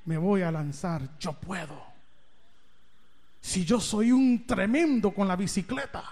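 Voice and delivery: put-on a kid's bold resolve, said low and soft; boyish daring. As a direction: talk yourself into it in a low voice. Boy dares himself.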